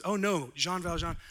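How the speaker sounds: kindly bishop pressing a gift on the man who robbed him; bishop's voice. Retold or imitated. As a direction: play the generous bishop, lightly voiced. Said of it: "And he says".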